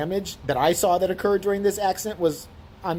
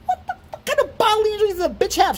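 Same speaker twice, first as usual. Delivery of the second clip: high, louder outraged yell; furious outburst; 6 dB louder than usual. Retold or imitated. Ranting about the woman's bodily injury claim, furious yell. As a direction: blow up at the absurd claim.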